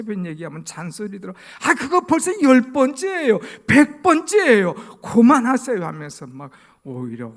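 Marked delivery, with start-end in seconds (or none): 1.6-5.9 loud, higher fed-up retort to a nagging parent; irritated child. Retold or imitated. 잔소리에 짜증 난 자식이 부모에게 하는 큰 소리 짜증. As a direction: shout it like a child sick of hearing it.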